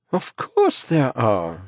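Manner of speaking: slow, smiling reassurance; gentle smiling answer; with a smile. A narrator's reading. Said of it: "she answers with a smile".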